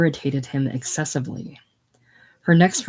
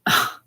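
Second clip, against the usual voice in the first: disgusted ugh. A narrator's reading. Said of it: "exclamation of disgust".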